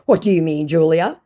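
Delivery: hammed-up indignant question; scammer voice. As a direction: act the scammer taken aback. Acts scammer's reply.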